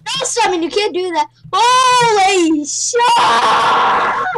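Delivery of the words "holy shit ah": loud, high, shocked yell; real panicked shout; startled scream. Real, not acted. Almost dies falling in game.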